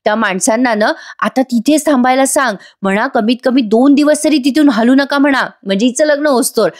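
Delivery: pleased. Acted. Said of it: "Priya खुश होते आणि म्हणते".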